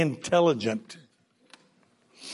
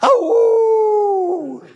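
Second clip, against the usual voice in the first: wolf howl; 12 semitones higher, 6 dB louder than usual. Acted. Second wolf howl with laugh.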